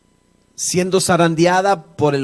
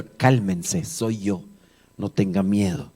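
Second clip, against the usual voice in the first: softer, unhurried words of Jesus; calm reassurance; 7 semitones lower, 7 dB quieter, slower than usual. A narrator's reading. Jesus to the terrified disciples on the lake, calm and reassuring. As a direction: settle their fear quietly.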